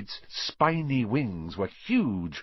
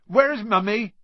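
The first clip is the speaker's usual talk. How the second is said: Hagrid's voice climbing into a much higher, louder call to the dragon; doting Hagrid; 5 semitones higher, 6 dB louder than usual. Acted. Hagrid voiced, calling his dragon.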